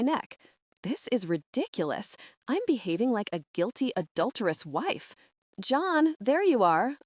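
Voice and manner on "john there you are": calling out. A narrator's reading. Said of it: "Ava calls out".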